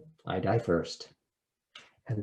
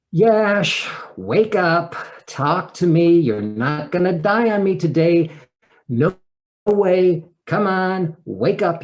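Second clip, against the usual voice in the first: urgent calling out; 6 semitones higher, 7 dB louder, slower than usual. Retold or imitated. Trying to revive unconscious ex-husband.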